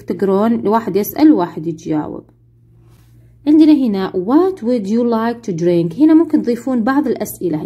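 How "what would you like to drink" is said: each English word spelled out slowly for the class; very slow model reading. Shown as a demonstration. Teacher playing flight attendant, very slow model question. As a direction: read it slowly so pupils can repeat. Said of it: "هنا يكون تدريب على القراءة".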